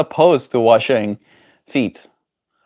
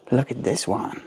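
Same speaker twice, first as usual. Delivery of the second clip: much softer hushed voice; soft coaxing; 10 dB quieter than usual. Real, not acted. Owner luring the bird with a cookie, softly. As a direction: hush it to the bird.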